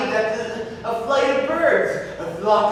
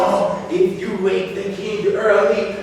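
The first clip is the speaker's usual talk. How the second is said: menacing threat; 3 dB louder, slower than usual. Acted. King's servant threatens the other.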